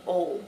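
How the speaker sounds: "ole" said as a single vowel, like the letters O-L-E; "ole" rhyming with hole, no glide; Southern oil. Retold or imitated. Vlogger imitates the strong Southern pronunciation of oil. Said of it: "it's almost like O L E".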